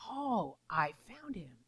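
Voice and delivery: soft, slow retold sigh of relief; tender relief. Mother retelling finding her lost son, softly relieved. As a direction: let the words out softly and slowly.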